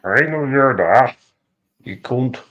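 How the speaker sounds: slow, drawn-out Irish accent; put-on Irish accent. Shown as a demonstration. Boasting of any accent, slow put-on Irish. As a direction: stretch it out in Irish. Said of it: "I can do any accent in the world".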